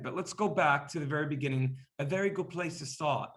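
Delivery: put-on light Cockney accent; a hint of Cockney accent. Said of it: "that's my Cockney accent".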